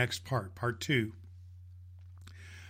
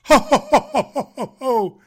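big, loud, high jolly ho ho ho laugh; Santa's ho ho ho; 10 semitones higher, 11 dB louder than usual. Acted. Santa laughing heartily at the little girl. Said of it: "laughed Santa".

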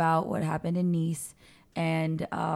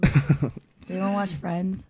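Phoebe's phlegm voice; 3 dB louder, much slower than usual. Retold or imitated. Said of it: "Phoebe's phlegm voice".

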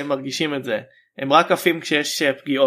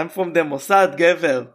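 put-on Israeli accent, tough guy swagger; 2 semitones higher, much slower than usual. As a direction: say it like a cocky Israeli agent. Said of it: "הלוואי ויהיה אחד במבטא ישראלי".

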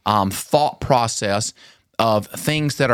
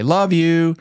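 higher, louder sing-song love you; habitual sing-song; 5 semitones higher, 3 dB louder than usual. Retold or imitated. Dad's automatic goodnight to daughters, sing-song. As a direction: toss off the usual sing-song. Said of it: "in the same inflection and same tone".

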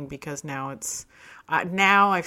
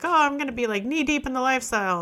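eager; 8 semitones higher, 4 dB louder than usual. Retold or imitated. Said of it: "I'm like".

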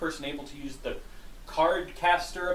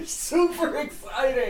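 sarcastic; 11 semitones higher, slower than usual. Acted. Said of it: "I'm not being sarcastic whatsoever".

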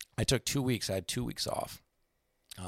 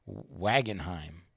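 drawn-out mock address; 4 semitones lower, much slower than usual.

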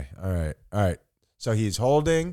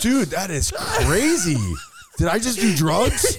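dazed; 5 semitones higher, slower than usual. Real, not acted. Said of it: "you can hear by my voice that I'm not doing a shtick".

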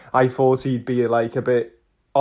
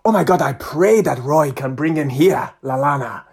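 imitated fervent Nigerian-accented prayer; emphatic Nigerian-accented wishing; praying Nigerian fan; 2 semitones higher than usual. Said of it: "he was just praying".

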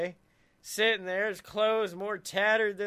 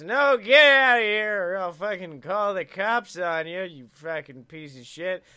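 angry yell; 5 dB louder than usual. Acted. Angry store owner yelling at job seeker.

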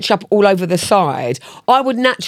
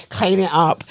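cold bossy command; 2 semitones lower, 3 dB quieter than usual. Retold or imitated. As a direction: say it softly but firmly, like an order. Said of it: "there's gotta be some kind of tonality with it".

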